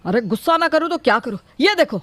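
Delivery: quick, exasperated retort; angry. Acted. Husband shows his wife the stained shirt, angry. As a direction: throw the question back in irritation. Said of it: "आप इतने गुस्से में क्यों हो?".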